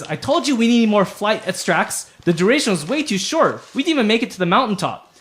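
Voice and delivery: mild squabbling gnome voice; arguing gnome. Acted. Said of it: "they're sort of arguing with each other".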